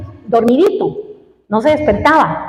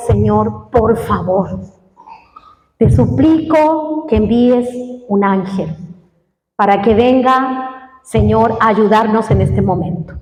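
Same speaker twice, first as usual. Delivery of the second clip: tearful plea; 5 semitones lower than usual. Retold or imitated. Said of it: "Yo lloraba ahí en el suelo". (súplica llorosa, baja y suave)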